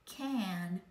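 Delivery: Can said with pinched nose, buzzing whiny A; nasal A in Can, nose held; nose plugged. Shown as a demonstration. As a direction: pinch your nose and let Can buzz. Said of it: "plug your nose and say it".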